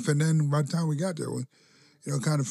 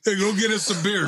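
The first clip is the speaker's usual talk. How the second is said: high, loud mock command; bossy order; 7 semitones higher, 4 dB louder than usual. Trainer bossing the student for beers, loud mock order. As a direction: order him around, hammed up.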